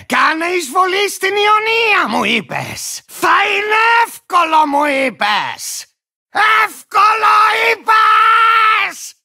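high mock quote, dropping into a sour grumble; indignant mocking quote. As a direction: throw the promise back, stretched into an outraged yell. Bitterly throwing back another's promise. (αγανακτισμένη, κοροϊδευτική φωνή)

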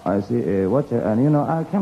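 a jokey imitation of Londoners talking English; mock English. Mocking how Londoners sound to him, jokey English. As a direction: rattle off broken English fillers like a Londoner would. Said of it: "なんか言いますけども".

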